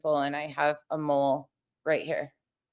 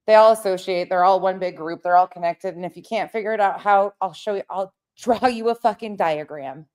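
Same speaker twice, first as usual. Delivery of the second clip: raised, heated rant at the critics; fired-up rant, voice up and pushing; 3 semitones higher than usual. Real, not acted. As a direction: lay into the critics, voice climbing and hard. Angry rant at critics in chat.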